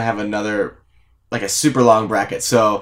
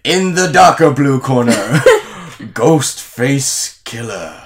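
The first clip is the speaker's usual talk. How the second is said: ring announcer. Acted. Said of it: "Mister Announcer".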